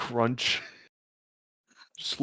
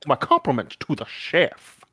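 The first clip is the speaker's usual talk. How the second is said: fast, posh-sounding food critic voice; changed character voice; 2 semitones higher, 4 dB louder, faster than usual. Acted. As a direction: savor every word like a gourmet. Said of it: "just eating it made his voice just turn".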